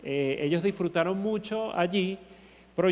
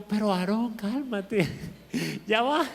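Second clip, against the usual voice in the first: laughing while calming. Retold or imitated. Pastor calming crying child.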